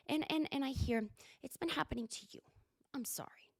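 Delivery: hushed gossip whisper; mock secretive whisper. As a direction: whisper the apology as if sharing a secret. Vicky confiding gossip.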